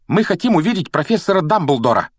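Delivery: put-on high, determined girl's voice; brave declaration. A narrator's reading. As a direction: step up and declare it boldly. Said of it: "Отважно выступила вперёд Гермиона".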